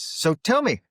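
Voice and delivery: high, pushy mock Irish accent; bad Irish accent. Irish pub-goer questions a stranger about the Troubles, bad Irish accent. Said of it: "it's a very bad Irish accent".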